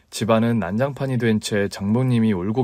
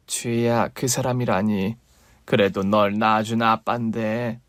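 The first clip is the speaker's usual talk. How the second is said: pleading mother; 3 semitones lower than usual. Acted.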